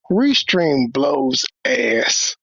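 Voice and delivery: slow, drawn out grumble; exasperated. Real, not acted. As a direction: drag it out in disgust. Frustrated at muted stream.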